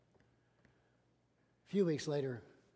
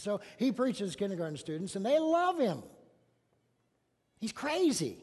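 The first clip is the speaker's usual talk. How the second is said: enthusiastic; 6 semitones higher, 7 dB louder than usual. Real, not acted. Enthusiastic aside.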